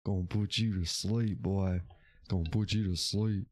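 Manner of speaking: southern accent, playing a sleepy radio host; lightly put-on southern accent. Streamer teasing chat about his sleepy voice, mock Southern accent. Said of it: "I can get my southern accent going on".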